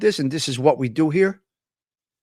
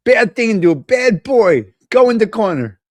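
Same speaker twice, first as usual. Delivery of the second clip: mock scolding; 5 semitones higher than usual. Mock scolding chat for prank.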